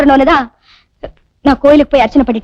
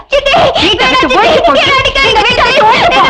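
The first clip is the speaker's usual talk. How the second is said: high shout with a cackling laugh; mock-taunting shout; 9 semitones higher than usual. Stepmother jeering as she drives the girl out. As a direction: jeer and yell her out of the house. Girl cries out during beating.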